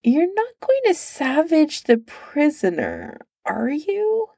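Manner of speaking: put-on a nervous guard questioning the drunk prince. A narrator's reading. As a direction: ask it anxiously, pitch climbing. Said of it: "one of the guards asked nervously".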